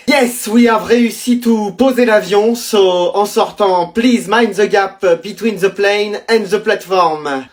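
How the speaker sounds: put-on slow French-accented English, like a cabin announcement; French pilot's slow franglais announcement.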